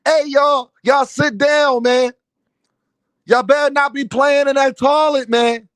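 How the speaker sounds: imitating a soft-voiced man scolding; Frequent's soft voice. Imagined Frequent telling off the household at home, mocking soft voice. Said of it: "imagine when Frequent go to the crib and tell".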